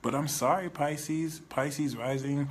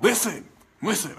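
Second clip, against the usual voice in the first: firm hushing; 10 semitones higher, 9 dB louder than usual. Retold or imitated. Jesus hushing the man.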